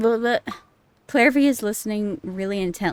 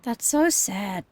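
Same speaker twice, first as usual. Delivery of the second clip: sad whisper; slower than usual. Real, not acted. Reacting to a sad game scene.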